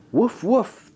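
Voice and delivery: high playful woof; barking dog. A narrator's reading. Long dog barking back at Mike, high playful woof. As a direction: bark it like a happy little dog. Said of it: "the long dog barked".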